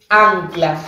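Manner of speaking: "ancla" with a nasal first a; slow demonstration of nasalised a in "ancla"; nasalised vowel. Shown as a demonstration. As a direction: draw out "ancla", air through the nose on the first a. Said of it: "ahí voy a tener nasalización".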